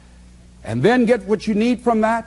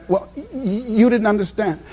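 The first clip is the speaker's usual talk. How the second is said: imitating stutter. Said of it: "she stutters".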